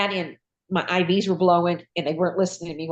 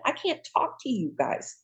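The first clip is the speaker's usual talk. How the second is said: higher, strained mock gasping for air; acted breathlessness; 4 semitones higher, 3 dB quieter than usual. Mother retelling her collapse to husband and daughter, acted breathlessness. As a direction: struggle to get the words out.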